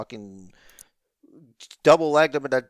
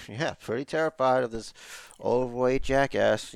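softly dry mock fear; downplay it with understated sarcasm; sarcastic admission; 4 semitones lower, 5 dB quieter than usual. Guest shows how Seth could have said it, sarcastic. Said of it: "being sarcastic about saying he was terrified".

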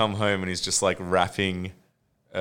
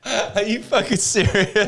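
high, slow, laughing disbelief; can't believe it, laughing; 11 semitones higher, 4 dB louder, slower than usual. Real, not acted. Asking his friend through laughter, high disbelieving question. Disbelief at accidental Simpsons reference.

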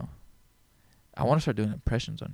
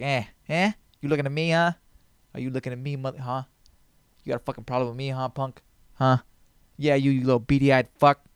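put-on a light touch of a harsh Italian tough-guy accent, picking a fight; a hint of Italian street tough squaring up. Vlogger doing his tough-guy impression, a mild harsh Italian accent. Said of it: "a little harsh, kind of like Italian".

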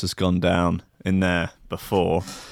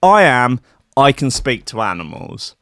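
louder, earnest declaration on I am; mock her grand boast; imitating the proud claim; 3 semitones higher, 3 dB louder than usual. The woman claims she talks to animals: loud mock pride. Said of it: "she said".

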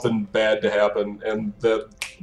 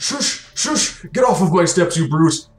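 indignant shooing; 5 semitones higher than usual. Acted. Temple official ordering a brute off the steps, indignant. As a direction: shoo them off indignantly in a raised pitch. Game master's official shoos player away.

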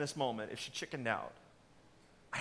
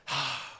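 mock weary sigh; imitated huff of frustration; exasperated sigh; 4 semitones lower than usual. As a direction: heave a fed-up sigh. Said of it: "they grumble and they complain".

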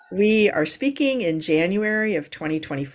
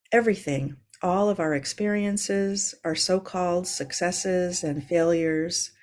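contemplative reading. Acted. Reads a contemplative quote.

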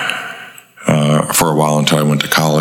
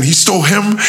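mock aggrieved complaint. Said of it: "I made up a lie".

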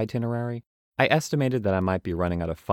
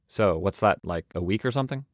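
new traveler's voice. Acted. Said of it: "I do need to change voices".

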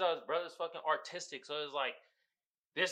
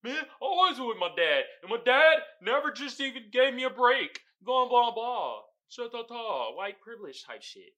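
pissed off rant; 4 semitones higher than usual. Retold or imitated. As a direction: whine about the unfair dad in a half-hearted huff. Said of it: "he was just hella pissed".

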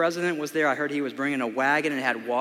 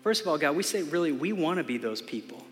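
closing prayer. Acted. Pastor prays over the congregation at the close, earnest prayer voice.

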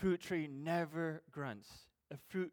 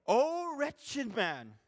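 lamenting; 7 semitones higher, 5 dB louder, much slower than usual. Acted. Preacher reads Paul's lament.

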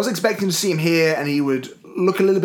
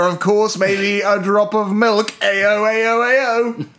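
hammed-up upper-class British accent, louder; posh British accent; 3 semitones higher, 3 dB louder, slower than usual. Shown as a demonstration. Podcast cohost mocks his friend's accent, hammed-up posh British. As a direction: play a jolly old-chap Brit offering tea. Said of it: "it sounded something a little bit more like this".

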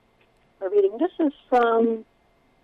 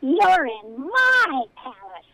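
higher squeaky rodent voice; 5 semitones higher, 4 dB louder, slower than usual. Acted. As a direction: squeak it right into her ear. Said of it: "squeaked the voice right into her ear".

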